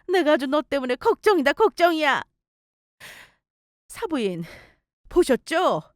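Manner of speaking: lightly voiced mother, sighing then sarcastic; exasperated mother-in-law. Mother-in-law mocking and warning the bride's mother, understated. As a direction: lament then lash out, snidely.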